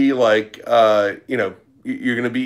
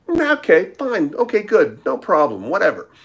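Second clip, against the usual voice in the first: dismissive Jordan impression; 5 semitones higher than usual. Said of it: "Jordan's like".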